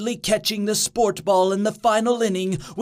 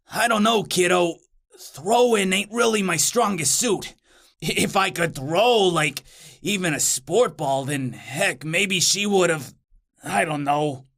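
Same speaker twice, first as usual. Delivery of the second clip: hesitant, halting demon buddy; reluctant demon talking himself down; self-doubting demon; 2 semitones lower than usual. Acted. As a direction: stall and falter, losing confidence as you go. Plays doubtful demon Bothersnatch.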